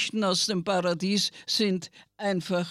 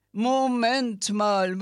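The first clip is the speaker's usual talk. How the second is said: fish blubbering; 2 semitones higher, slower than usual. Acted. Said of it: "blubberten die Fische".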